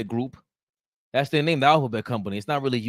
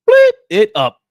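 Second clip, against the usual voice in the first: voiced bleep over the swear, much higher and louder; censor bleep; 14 dB louder than usual. Host bleeping out his own curse, squeaky high.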